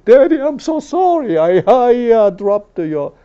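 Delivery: put-on gasp, then high, pleading child voice; high, anxious mock confession; frightened apologetic child. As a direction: imitate a kid stammering an apology to daddy. Acted fearful child apologizing to father.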